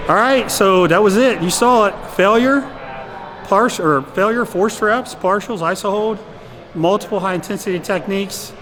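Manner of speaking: breathless and keyed up after the set; out of breath. Real, not acted. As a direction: talk while still catching your breath. Talking right after exhausting set.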